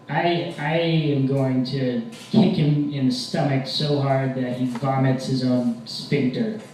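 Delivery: mildly worked-up, slow threat; upset, defensive. Acted. Defensive boyfriend vowing revenge to girlfriend, slow mock menace. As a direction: spell out the threat slowly and deliberately. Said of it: "I get very upset".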